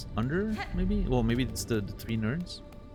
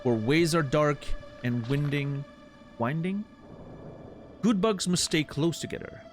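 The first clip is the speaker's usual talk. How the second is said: higher, theatrical flea showman; grandiose flea circus showman; 6 semitones higher than usual. Acted. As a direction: boom it out like a ringmaster. Voices flea master dialogue.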